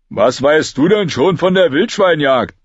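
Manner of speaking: lightly voiced sulky boy; challenging question. A narrator's reading. Heiße Pastete challenges Arya, sulky.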